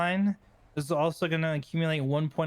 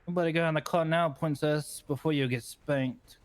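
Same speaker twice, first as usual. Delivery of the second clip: princess voice. Pretend. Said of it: "here's the princess voice".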